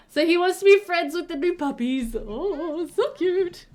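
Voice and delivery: high, gushing puppy adoration; adoring coo. Real, not acted. Player watching friends made with new puppies, adoring coo.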